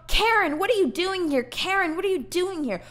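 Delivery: high-pitched mock yell through a door; imitated yelling. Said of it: "She's yelling through the door".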